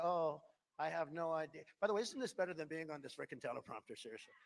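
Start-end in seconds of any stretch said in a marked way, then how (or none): 0.0-1.6 soft, lost voice mocking Biden; confused Biden. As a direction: sound helplessly clueless. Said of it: "Biden's looking at them".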